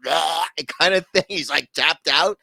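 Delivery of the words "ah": imitated strangled "ah" of pain; mock choking cry. Imitating McGregor getting his neck yanked, mock choking cry. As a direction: cry out like someone being choked. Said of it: "He was like".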